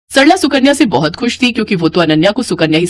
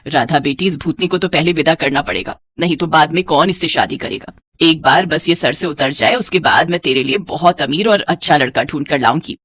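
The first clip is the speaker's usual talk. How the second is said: lower-pitched mother, placating her favourite; lightly voiced scheming mother; 5 semitones lower than usual. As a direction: lightly play a mother reassuring her daughter.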